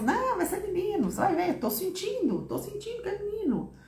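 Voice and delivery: high, soft imitation of mother; high-pitched, quietly insistent mum impression; imitated mother. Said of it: "E aí minha mãe falava assim".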